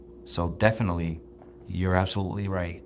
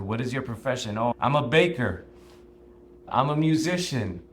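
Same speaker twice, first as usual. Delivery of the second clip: movie quote voice; 4 semitones higher, 3 dB louder than usual. Retold or imitated. Acting out Spartan movie scene.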